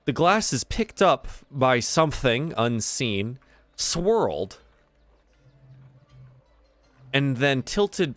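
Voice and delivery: measured scene setting with pauses; game master narration. Acted. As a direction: unfold the scene phrase by phrase.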